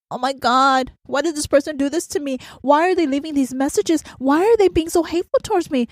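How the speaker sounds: plaintive put-on complaint, pitch climbing; hammed-up hurt disbelief; mock upset. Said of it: "most of you will get upset".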